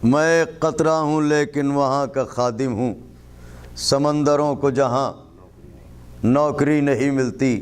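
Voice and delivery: measured verse with pauses between phrases; poetry recitation. Acted. Poet repeating a couplet for the gathering, measured recitation. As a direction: recite it phrase by phrase, pausing for effect.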